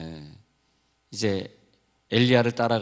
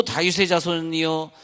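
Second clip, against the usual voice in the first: renewed plea; 6 semitones higher than usual. Retold or imitated. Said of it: "했더니 또".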